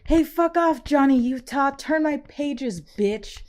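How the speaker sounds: high, loud yelled movie quote; better impression. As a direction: shout it high and loud like an angry drummer. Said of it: "try to do better impression".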